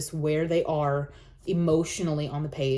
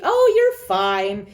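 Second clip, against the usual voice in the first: louder, slow brush-off; dismissive parent; 5 dB louder, much slower than usual. Retold or imitated. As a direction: wave the crying off like a parent who's heard it all. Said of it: "a parent's response may be".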